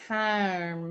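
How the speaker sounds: a lightly imitated Irish "Calm" with an open, drawn-out vowel; a hint of an Irish accent on "Calm". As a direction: say "Calm" the way an Irish narrator would. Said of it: "she has an Irish accent".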